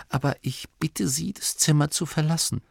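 put-on a tired old man politely dismissing her; frail abbot. A narrator's reading. The frail abbot asking Oma to leave the room.

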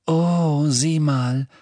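happy little 'look at that' in a high voice; happy murmur. A narrator's reading. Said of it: "flüsterte Luna nun glücklich".

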